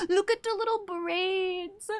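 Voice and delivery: soft gasp. Real, not acted. Sees photo, gasps softly.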